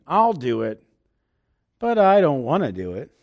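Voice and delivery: laughing, reluctant mock promise; half-joking, you don't really mean it; grudging with a laugh. Agreeing to a chore while laughing it off, grudging. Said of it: "this is the tone of voice".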